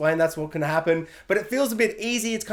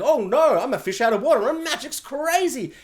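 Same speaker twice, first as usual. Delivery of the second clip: mock flustered muggle; 5 semitones higher than usual. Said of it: "where he's just like".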